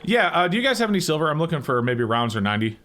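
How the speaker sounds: disguised voice through a voice changer; masked caller voice. Real, not acted. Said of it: "I am using a voice changer".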